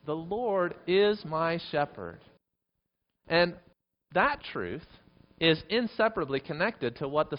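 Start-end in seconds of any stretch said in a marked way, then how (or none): 0.1-2.2 slow, spaced-out words; leading congregational recitation. Shown as a demonstration. Preacher leads congregation one more time, slow and deliberate. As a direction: give each word its weight, slowly. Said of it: "One more time".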